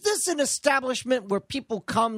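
put-on hamming up a British accent. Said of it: "Stop trying to do the British accent".

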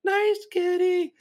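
high, slow, wary coaxing of a big cat; nervous nice kitty. Retold or imitated. Backing away from the cougar, high nervous coaxing. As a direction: coax the cougar while backing off.

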